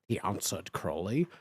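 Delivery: usual speaking voice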